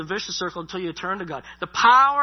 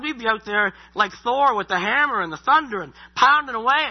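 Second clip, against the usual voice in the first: booming Thor-like preaching; 4 semitones higher, 7 dB louder than usual. Pretend. Pictures God as thundering Thor.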